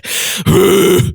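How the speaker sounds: high rasping sigh; false chord sigh. Shown as a demonstration. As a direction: push out a distorted sigh. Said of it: "It just really doesn't work".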